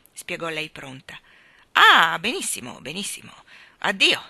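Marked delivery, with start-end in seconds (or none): 1.7-4.2 almost gentle. A narrator's reading. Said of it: "voce che per lui era quasi gentile".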